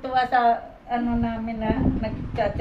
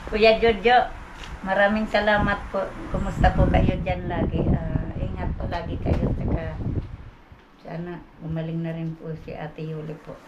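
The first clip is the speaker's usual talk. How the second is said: lower-pitched, measured message of thanks; earnest thank-you message; 7 semitones lower than usual. Real, not acted. Beneficiary addressing her donor Kuya Jojo, low earnest thanks. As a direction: give thanks in a low, sincere voice.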